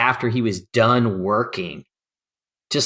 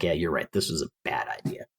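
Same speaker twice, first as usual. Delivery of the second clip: subdued agreement; 6 semitones lower, 10 dB quieter than usual. Retold or imitated. Partner agrees they must bail.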